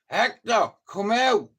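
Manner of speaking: high, loud yell across the battlefield; retold scream. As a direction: shout the name up at the walls. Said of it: "He's screaming up".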